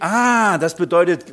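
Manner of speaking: exaggerated aha moment; mock sudden understanding. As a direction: act out a listener catching on. Acts out listeners suddenly understanding.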